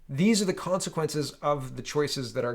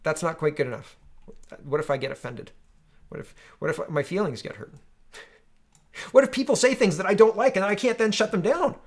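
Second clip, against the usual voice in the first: whiny, higher mock entitled voter; 5 semitones higher than usual. Streamer mocking entitled voters, whiny higher mock voice. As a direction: sneer it like a spoiled voter. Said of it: "our current electorate's like".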